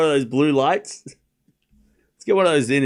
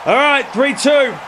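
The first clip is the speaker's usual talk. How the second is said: getting angry; 10 semitones higher than usual. Real, not acted. Streamer watching tennis at dawn, voice climbing in frustration. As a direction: let the frustration show as the score goes against him. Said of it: "now I'm getting angry".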